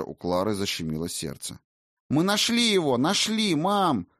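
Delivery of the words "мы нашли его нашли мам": excited high yell. Acted. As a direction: shout the news out. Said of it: "завопил Эртан".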